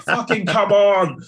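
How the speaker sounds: high, loud drawn-out cheer; celebratory scream. Acted. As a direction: scream it out like a fan celebrating a goal. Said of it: "I should have really been screaming".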